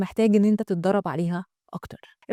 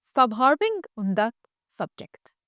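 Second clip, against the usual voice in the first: slow repeat trailing to breath; slow with the last word breathed; slow model; much slower than usual. Shown as a demonstration. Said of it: "برافو عليك". (تكرار بطيء للجملة)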